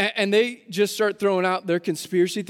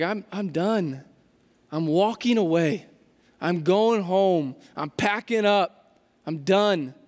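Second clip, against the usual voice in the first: low, slow and weary, every line sinking; defeated giving up; 4 semitones lower than usual. Retold or imitated. Disciples walking home after the cross, low and defeated. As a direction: sound like a man who has quit.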